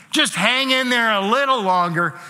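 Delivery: pat them on the back with words; glib comfort. Retold or imitated. Friend offering easy comfort, mildly mocked. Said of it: "we'll say things like".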